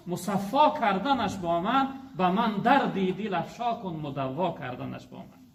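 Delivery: slow, measured poem recitation; reciting a Persian verse in a sermon, slow and lilting; recited verse. Acted. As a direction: intone the couplet slowly like poetry.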